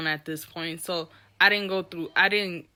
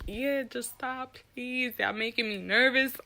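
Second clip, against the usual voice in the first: soft, uneasy aside; nervous plea, retold; 3 semitones higher, 6 dB quieter than usual. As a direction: beg them quietly to stop. Nervous plea under her breath.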